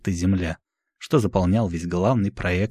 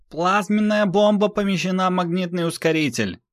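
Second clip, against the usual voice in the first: much higher, tense report; operator voice; 11 semitones higher than usual. Acted. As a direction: crew shouting status. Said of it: "начали отзываться операторы".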